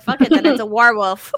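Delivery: quick laughing line; laughing quote. Retold or imitated. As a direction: toss it off while laughing. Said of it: "I was like".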